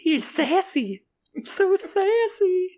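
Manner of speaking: very high, slow hissing s; drawn-out s like a snake. Acted. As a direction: stretch each s like a snake. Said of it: "You sound like a silly snake".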